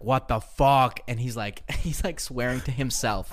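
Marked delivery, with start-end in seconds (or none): 0.0-1.0 mock angry outburst.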